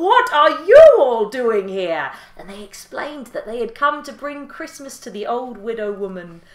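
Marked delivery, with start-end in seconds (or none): 0.0-2.1 loud, high, slow owl voice. Acted. Owl calls down to the animals in a loud owl voice. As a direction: ask it as a startled old owl. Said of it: "And the owl went".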